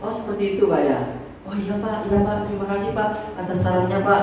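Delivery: softly amazed, polite acknowledgement; mild wonder. Shown as a demonstration. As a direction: play a hushed, courteous "oh, I see" to a customer. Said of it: "ekspresinya ekspresi heran".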